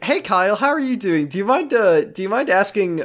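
high, chirpy mock mom; lightly hammed-up doting mother; mother's voice. Voices mother Nicole to Kyle.

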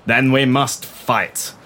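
stern naval commander giving orders; commanding admiral. Acted. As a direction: bark orders from the bridge.

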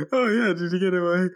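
a high, silly send-up of the sheriff; mocking high sheriff voice. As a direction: play the sheriff as a ditzy high cartoon. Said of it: "She's like".

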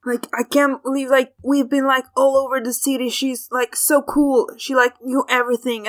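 gushing, run-on chatter with rising pitch; Frog, excited rambling. Acted. Frog telling Dawn about the lady, excited rambling. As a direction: ramble on breathlessly impressed. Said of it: "Frog just keeps rambling on".

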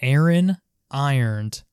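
"Aaron ironed" read slowly, carefully. Shown as a demonstration. Explaining the accent test, slow careful read. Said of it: "So they have to read".

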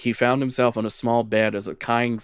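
measured lore reading; lightly dramatic storyteller voice; story narration. Acted. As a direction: read it like a dark legend. Reads the lore text aloud.

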